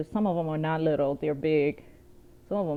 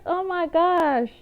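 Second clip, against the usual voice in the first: high, slow wail through laughter; laughing dismay; 9 semitones higher, slower than usual. Real, not acted. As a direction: wail it while still cracking up. Still cracking up, quoting herself.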